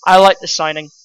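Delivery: old man nodding his approval, lightly put on; lightly voiced old man. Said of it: "that old man there with the glasses going".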